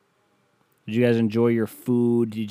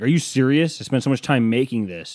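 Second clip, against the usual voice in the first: indignant host, pitched up and louder; offended host; 3 semitones higher, 4 dB louder than usual. Retold or imitated. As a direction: act out the wounded cook. Host offended by guest's dislike.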